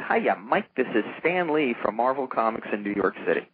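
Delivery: breezy Stan Lee hello, just a hint of him; Stan Lee impression. Stan Lee calling a young professor, lightly imitated with a cheery lift. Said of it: "you do him very well".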